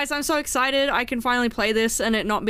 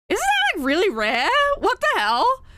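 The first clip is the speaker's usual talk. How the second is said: surprised; 5 semitones higher than usual. Real, not acted. Reacting to rare hype train.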